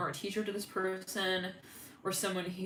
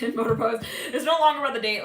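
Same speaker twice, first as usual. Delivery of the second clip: laughing; 4 semitones higher, 7 dB louder, faster than usual. Real, not acted. Amused by date turning sales pitch.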